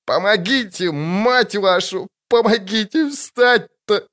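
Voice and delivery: high, slow, desperate plea; drawn-out pained cry for help; howling for help. Acted. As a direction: beg for help, stuck on the ice. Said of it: "выл Ольхаршейм".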